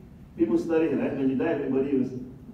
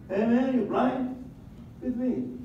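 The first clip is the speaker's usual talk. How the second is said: mock angry yell; 11 semitones higher, slower than usual. Neighbor yells at water dripper.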